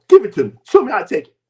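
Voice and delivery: loud, lightly mocked demand; punchy retold ordering; demanding wife. Wife's demand acted out again.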